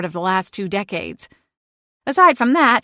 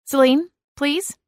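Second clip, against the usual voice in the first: a strained, higher plea; pleading exasperated; 7 semitones higher than usual. Acted. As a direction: beg her to stop, at wit's end. Begging the cat to stop.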